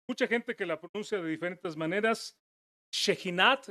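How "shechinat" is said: Shechinat with final t; "Shechinat" said she-chee-NAT, ending on a t; "Shechinat" as she-chee-NAT, final t sounded. Shown as a demonstration. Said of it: "esa otra pronunciación".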